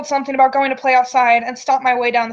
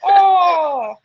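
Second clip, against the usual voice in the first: laughing; 9 semitones higher, 4 dB louder, much slower than usual. Real, not acted. Laughing at the flub.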